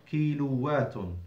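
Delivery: slow "kiluwatun", holding the doubled w; doubled waw. Shown as a demonstration. Teacher models the plural, "kiluwatun" with a doubled w. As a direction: lean on the w in "kiluwatun" as a double consonant. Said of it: "a shadda on the waw".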